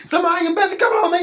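high, loud hammed-up yell; mock shout. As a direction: holler through the bathroom door. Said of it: "He said".

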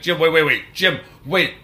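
anxious friend calling up a ladder; urgent pleading. Retold or imitated. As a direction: plead with him to wait. Panicked at Jim on ladder.

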